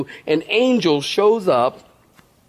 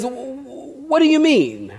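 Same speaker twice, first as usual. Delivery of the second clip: indignant surprise; 7 semitones higher than usual. Pretend. Gabriel indignant at question.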